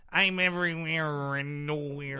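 faking a voice changer with his own voice; self-modulated voice. Pretend. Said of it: "Let me try to modulate my own voice".

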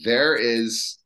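slow, puzzled and high; baffled what's going on here; confused surprise. Retold or imitated. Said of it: "And then they're saying".

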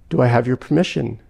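an unhurried, grave angel; calm angel. Acted.

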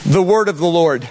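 lightly put-on Southern accent. Preacher opening a scripture reading, Southern accent. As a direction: announce scripture with a Southern twang. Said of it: "in a Southern accent".

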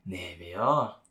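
Ibaraki accent slipping out, low; real Ibaraki dialect. Real, not acted. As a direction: let a low Ibaraki twang slip out. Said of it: "あ、出ちゃった".

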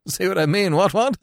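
giggling through the words. Acted. Cyril enjoying his own joke, giggling as he says it. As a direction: chuckle along at your own joke.

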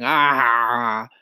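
acted open "ah-ha-ha" laugh; narrator's mock group laugh; burst of laughter. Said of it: "Everyone burst out laughing".

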